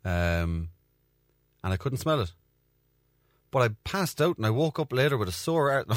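ordinary delivery

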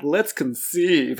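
schmaltzy mock. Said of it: "it's so schmaltzy".

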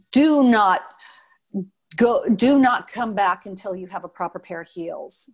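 loud, stern order from the boss; terrifying director. Retold or imitated. Choreographer ordering a dancer offstage, loud and stern. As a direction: bark it like a furious choreographer. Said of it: "oh, he was terrifying".

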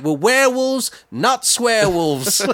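high, slowing punchline; catchphrase. Retold or imitated. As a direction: savour the line proudly. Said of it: "That's right".

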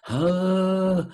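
long, steady "uh" on the outgoing breath; demonstrated voiced exhale. Shown as a demonstration. Teacher shows class how sound is made, sustained exhaled tone. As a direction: let air out as one held tone. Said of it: "that's how you make sound".

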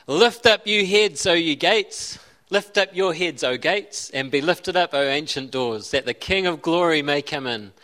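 measured, declaiming psalm reading; solemn Bible reading voice; scripture reading. Acted. Reads Psalm 24 aloud.

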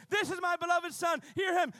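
booming voice of God; voice from the cloud. Acted. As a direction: announce it like heaven speaking. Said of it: "a voice came of the cloud saying".

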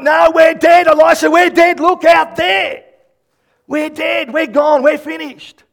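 very high, shouted mock panic; acted hysteria. Servant contradicts Elisha about the army, acted hysteria. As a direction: yell over all reassurance, utterly doomed.

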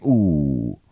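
low, soft, fake apology; mock sympathy. Prankster rubs it in to a Packer fan, mock sympathy. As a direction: drop it low and quiet, faking regret. Acted teasing of losing fan.

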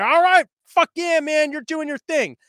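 hammed-up bro cheering; cheering AA crowd. Mocking AA group cheering a sober member, loud mock whoop. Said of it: "And they're like".

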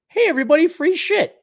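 high mocking call to the crowd; hammed-up cheer for handouts. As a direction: sneer it like a carnival barker. Mocking voters calling out.

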